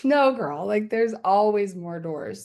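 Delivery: a wise friend teasing her; lightly voiced sassy spirit; voice of the medicine. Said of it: "And it was like".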